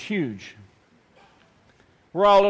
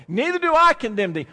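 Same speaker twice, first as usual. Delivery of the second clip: "Neither do I condemn thee" said higher and louder; louder preached quote; 4 semitones higher, 3 dB louder than usual. Shown as a demonstration. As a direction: proclaim it to the congregation.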